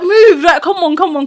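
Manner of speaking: high-pitched mock hurrying, easing off after "move"; retold urgent order. Caribbean auntie hurrying her out, high mock urgency. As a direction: imitate an impatient auntie chivvying someone along. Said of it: "she's Caribbean".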